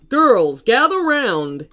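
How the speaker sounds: loud coach's call to gather; coach calling players. Acted. Coach gathering the players for an announcement, calling out. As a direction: call the team in, loudly.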